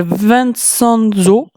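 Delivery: put-on name said slowly in a clumsy Italian accent; slow, hesitant Italian-accented Vincenzo. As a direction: try the Italian name Vincenzo with an Italian accent, a bit self-consciously. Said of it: "Excusez-moi pour mon accent encore déplorable".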